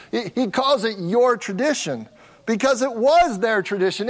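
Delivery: "your" and "their" in "your tradition ... their tradition" pressed; stress on your. Shown as a demonstration. Pastor repeating Jesus' word choice, stressing "your". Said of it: "I'm trying to emphasize your tradi".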